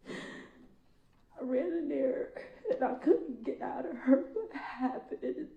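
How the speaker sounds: slow, tearful, voice breaking; real crying while telling it. Real, not acted. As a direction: choke the words out through tears. Breaking down recounting the killing.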